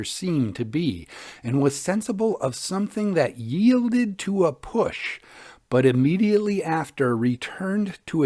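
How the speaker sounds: hushed, eerie storytelling; ghost story narration. A narrator's reading. Podcast host reading a Victorian ghost tale to listeners, eerie narration. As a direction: tell it like a fireside ghost tale, drawing them in.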